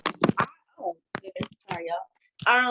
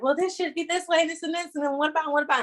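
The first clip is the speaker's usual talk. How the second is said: higher, fast, fussy mom voice; picky mom; 7 semitones higher, faster than usual. Retold or imitated. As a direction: nitpick quickly and high like the mom. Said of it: "she's like".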